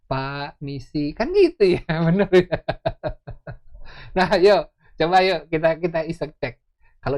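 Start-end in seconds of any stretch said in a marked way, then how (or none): 0.1-1.2 timid servant. Retold or imitated. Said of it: "Pembantu saya tuh datang".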